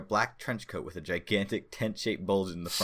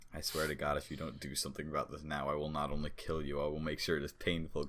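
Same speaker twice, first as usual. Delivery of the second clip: snarled; 4 semitones lower, 6 dB quieter than usual. A narrator's reading. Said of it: "Kondraki snarled".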